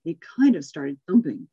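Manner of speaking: storybook reading, lively and even; story narration. Acted. Reading a Seuss story to the class, storyteller voice. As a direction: read the tale to the group like a picture book.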